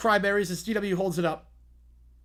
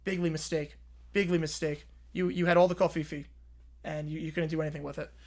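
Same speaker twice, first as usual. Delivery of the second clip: lower, boastful businessman scolding; blustering tycoon boss; 3 semitones lower, faster than usual. Acted. Apprentice boss scolding the kids, lower and boastful. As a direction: puff up like a reality-TV boss.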